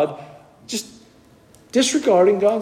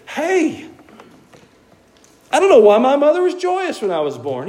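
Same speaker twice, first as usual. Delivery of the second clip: much higher, plaintive complaining voice; despairing prophet; 9 semitones higher than usual. Retold or imitated. Preacher voicing Jeremiah lamenting his birth, high and plaintive. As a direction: whine it out to the heavens. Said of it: "And he said".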